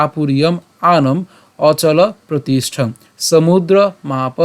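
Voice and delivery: slow verse reading; slow recitation. Shown as a demonstration. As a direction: read slowly, word by word. (ধীরে শ্লোক পাঠ)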